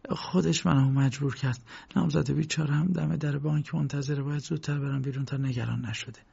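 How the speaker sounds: mildly voiced frightened guard begging K; quiet pleading. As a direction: plead with him, lightly voiced. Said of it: "آرام به کی گفت".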